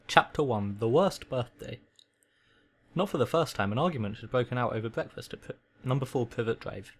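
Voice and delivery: measured read-aloud storytelling; story narration. A narrator's reading. Reading a requested story to a listener, story narration. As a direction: read it like a bedtime audiobook.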